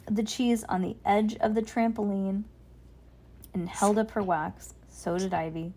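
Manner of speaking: put-on calm storybook reading for a child; story narration. A narrator's reading. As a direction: read it like a bedtime story.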